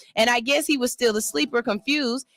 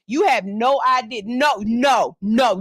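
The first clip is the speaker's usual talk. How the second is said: louder, emphatic no no no; loud mock rant; 3 dB louder than usual. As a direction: shout it at him, half joking. Ranting at the boyfriend.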